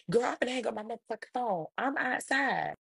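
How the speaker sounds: exasperated mom. Retold or imitated. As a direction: threaten to hang up, high and fed up. Mom threatens to hang up.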